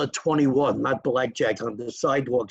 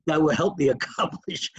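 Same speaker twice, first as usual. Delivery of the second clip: embarrassed laugh. Real, not acted. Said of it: "I get so emotional".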